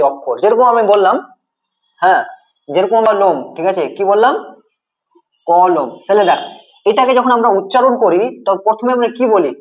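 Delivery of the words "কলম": কলম split in two beats, ক then লম; syllable by syllable. Shown as a demonstration. Teacher shows students the syllables, কলম in two beats. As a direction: say কলম as ক, then লম, drawn apart. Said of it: "কলমটা আমরা কিন্তু দুবারে উচ্চারণ করি".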